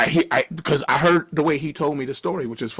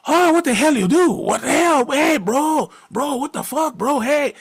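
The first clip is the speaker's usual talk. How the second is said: high, louder voice of an outraged clerk; upset Armenian clerk; 12 semitones higher, 4 dB louder than usual. Retold or imitated. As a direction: play the clerk spotting the damage. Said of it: "the little Armenian guy comes out there".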